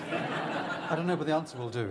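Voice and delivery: breaking into laughter mid-reply; laughing. Real, not acted. Interviewer laughs off the guest's lost question, laughing.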